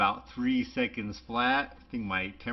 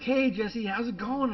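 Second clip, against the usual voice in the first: imitating Noah; 12 semitones higher, 5 dB louder than usual. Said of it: "He's like".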